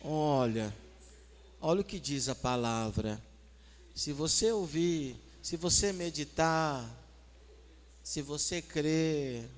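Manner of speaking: low, slow soothing answer; mock-serene, unhurried counsel; very gentle. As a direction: draw each phrase out to calm them. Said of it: "Bem suave".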